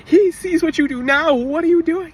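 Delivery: retold furious scolding. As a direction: scold him for waiting. Scolding the driver in street.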